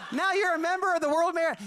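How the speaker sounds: high, mock-grand presenter voice; hammed-up club induction; ceremonial announcement. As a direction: imitate an official reeling off another honour. Third medal announcement acted out.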